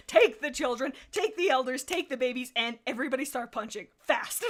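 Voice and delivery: shouted orders. Acted. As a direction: bark orders at the whole clan. Leader's absurd battle order.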